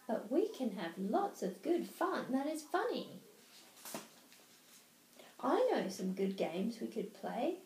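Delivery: put-on lively showman cat, coaxing the children; lightly voiced cheeky cat; Cat in the Hat.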